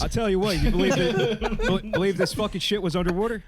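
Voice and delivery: badly faked Texas accent; drawling, shaky attempt at a Texas accent. President marvelling at underwater story, badly faked Texas accent. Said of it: "I can't do a good Texas accent".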